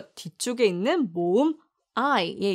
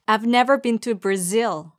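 very slow example sentence; much slower than usual. Shown as a demonstration. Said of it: "같이 발음해 볼까요".

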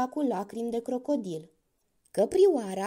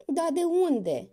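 a slow, higher mock groan; 6 semitones higher, slower than usual. A narrator's reading. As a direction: crocodile groaning, lightly acted. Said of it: "gemu crocodilul".

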